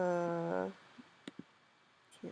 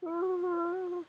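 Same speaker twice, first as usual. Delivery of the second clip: drawn-out, high weary sigh; tired sigh; 8 semitones higher than usual. Real, not acted. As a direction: let out a long tired sigh. Tired streamer sighs aloud.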